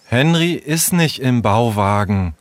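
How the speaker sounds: subdued, mildly downcast; a touch of sadness; sad. Acted. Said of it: "sagte Leo traurig".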